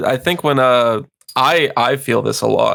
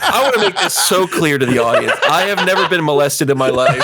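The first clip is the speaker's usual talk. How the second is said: laughing. Real, not acted. Defending himself amid laughter.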